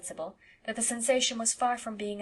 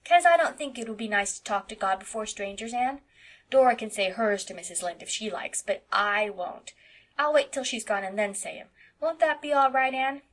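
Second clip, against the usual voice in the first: put-on little boy voice; 5 dB louder than usual. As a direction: chatter like an eight-year-old boy. Narrator voices Davy.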